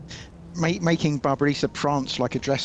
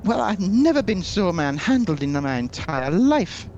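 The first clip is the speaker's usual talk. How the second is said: offended prince; 4 semitones higher than usual. Acted. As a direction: bristle with wounded pride.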